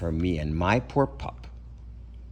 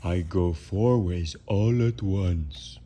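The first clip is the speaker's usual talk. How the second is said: spookish hunch; 2 semitones lower, slower than usual. Acted. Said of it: "a spookish hunch suggested".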